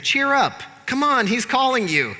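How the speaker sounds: very high mock cheerful call; put-on encouragement. Crowd calling the blind man over, mock cheery encouragement. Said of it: "they say to him".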